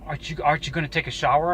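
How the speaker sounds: lightly put-on effeminate man; understated mock camp question. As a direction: imitate him with a slight camp lilt. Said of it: "in the gayest voice".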